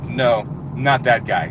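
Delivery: lightly voiced interviewer, waving him off slowly; slow dismissive interviewer. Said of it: "they're like".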